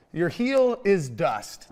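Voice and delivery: slow, deliberate imitation of a doctor; drawn-out mock diagnosis; doctor's blunt verdict. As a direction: spell out the bad news word by word, lightly acted. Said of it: "when the doctor came out, she goes".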